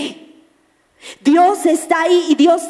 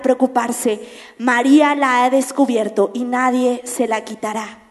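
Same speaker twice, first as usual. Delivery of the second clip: gentle Jesus; 3 semitones lower than usual. Retold or imitated. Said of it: "El Señor le dijo".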